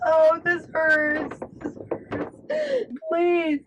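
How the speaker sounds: whimpering plea; desperate pleading. Real, not acted. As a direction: beg in desperation. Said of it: "desperation mode".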